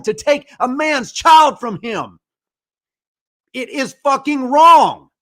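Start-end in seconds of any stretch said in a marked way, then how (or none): 3.5-5.1 slow, louder, hammering the word wrong; angry outburst. Real, not acted. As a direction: spit it out in real anger. Rant on a father losing his kids.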